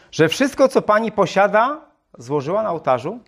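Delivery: pressing question, pitch pushed up; the missionary insists to the woman, mildly; insisting. Acted. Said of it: "nalegał misjonarz".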